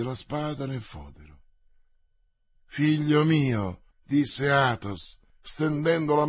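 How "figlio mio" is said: slow, tender address; a fatherly word to a lost son. Acted. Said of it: "nei suoi momenti di tenerezza".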